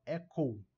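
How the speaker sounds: "Echo" closing in a U glide; little U at end. Shown as a demonstration. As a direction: show the final OU of "Echo". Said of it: "o U no final". ("Echo" com U no final)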